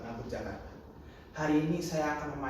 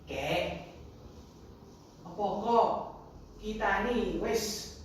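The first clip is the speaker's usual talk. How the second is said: put-on hushed, halting child's question; whispering grandchild; 5 semitones higher, 3 dB quieter, slower than usual. Grandchild creeps up to ask grandfather, hushed. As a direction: softly coax an answer out of grandpa. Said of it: "lalu berbisik".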